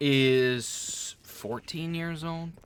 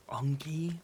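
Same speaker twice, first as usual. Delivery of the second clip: whispered mockery; 4 semitones higher than usual. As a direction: whisper "Unky?" with disdain. Mocking the nickname.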